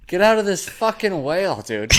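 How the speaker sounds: tough Boston dude, high and laughing; a Boston bro daring him; Boston accent. Retold or imitated. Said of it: "That's a really good Boston accent".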